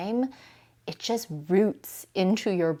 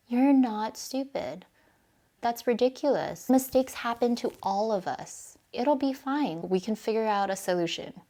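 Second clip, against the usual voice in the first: loving reassurance; 3 semitones higher than usual. Shown as a demonstration. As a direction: comfort a dear sister after a mistake. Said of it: "the difference in tone".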